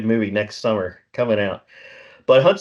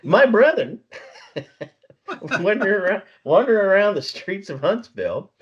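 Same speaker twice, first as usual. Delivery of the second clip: mock geek voice; 9 semitones higher than usual. Joking about fellow geeks.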